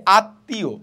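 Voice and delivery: আত্মীয় split as at-tiyo; teacher's demonstration of আত্মীয় with long t; doubled consonant. Shown as a demonstration. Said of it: "দুইবার উচ্চ".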